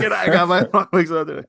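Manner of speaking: high, fast hammed-up creepy line; deliberately bad horror delivery; bad acting. Shown as a demonstration. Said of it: "if he delivered it like I just did".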